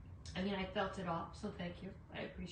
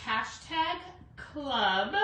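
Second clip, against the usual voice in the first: Hashtag club spelled out slowly and firmly; teacher stressing the keyword; slow emphatic keyword; 7 dB louder, much slower than usual. Shown as a demonstration. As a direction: land each word of Hashtag club so viewers type it. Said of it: "you have to put the hashtag in".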